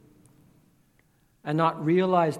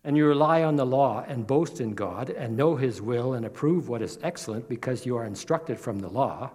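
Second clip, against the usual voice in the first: louder, preached reading of Romans; scripture reading; 3 dB louder than usual. Acted. Preacher reading Romans aloud to his church, forceful. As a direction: proclaim the passage to the congregation.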